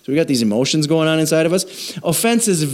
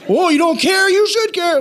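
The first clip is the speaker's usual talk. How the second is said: mock indignation; 14 semitones higher than usual.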